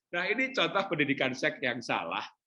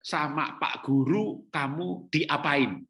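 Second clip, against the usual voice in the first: gentle coaxing; much slower than usual. Acted. Wise adult gently questions child.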